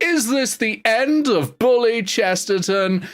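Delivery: dramatic, theatrical, slow-motion delivery. Voicing a dying character as a spotlight hits him: dramatic dying line. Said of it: "he turns and a spotlight hits him and he goes".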